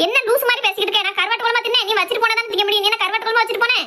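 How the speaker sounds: mother-in-law bristling at the daughter-in-law's accusation; indignant retort. Acted. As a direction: voice pushed up high in indignation. Mother-in-law snaps back at daughter-in-law.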